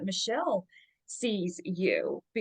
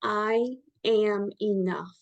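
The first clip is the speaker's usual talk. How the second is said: very slow, steady affirmation; slow mantra; much slower than usual. Shown as a demonstration. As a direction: let each word land. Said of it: "three most powerful words".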